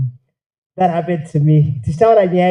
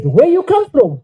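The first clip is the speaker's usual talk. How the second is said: put-on high, louder Japanese-accented question; mock Japanese child; 9 semitones higher, 5 dB louder than usual. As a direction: imitate a puzzled Japanese kid.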